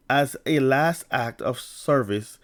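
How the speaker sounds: stumbling slowly over the words; tripping over the phrase; tongue-tied. Real, not acted. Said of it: "I'm getting tongue-tied here".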